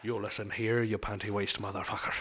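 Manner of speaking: low Irish threat; Irish accent. Acted. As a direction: warn them quietly as an Irishman. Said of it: "And that's my Irishman".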